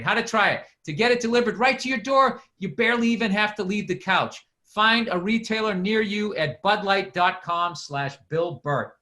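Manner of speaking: lightly announced product copy; mildly punchy podcast ad delivery; sponsor ad read. Acted. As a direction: read out the flavors like a casual pitchman.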